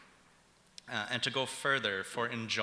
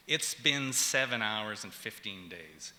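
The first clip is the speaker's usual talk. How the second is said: slow, each beat of "It's been seven hours and fifteen days" marked; slow, measured lyric recital; rhythmic lyric reading; slower than usual. Shown as a demonstration. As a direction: speak the lyric to show its pulse. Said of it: "starts with irregularity".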